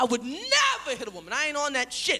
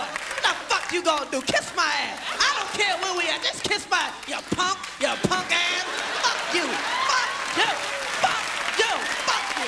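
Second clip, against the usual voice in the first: imitating a woman yelling at her man, higher pitched; hammed-up shouting girlfriend; mock yelling woman; 4 semitones higher than usual. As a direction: tear into him like he's a little boy. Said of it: "so she can yell at him like a little boy".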